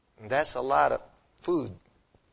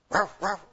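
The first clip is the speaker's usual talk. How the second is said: mock dog bark; 3 semitones higher than usual. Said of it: "how does that sound?".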